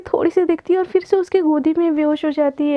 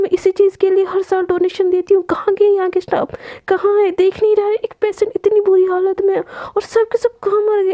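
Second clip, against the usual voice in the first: raised, higher angry scolding; 3 semitones higher than usual. Acted. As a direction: tear into the hospital staff. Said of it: "एकदम गुस्से में बोलती है".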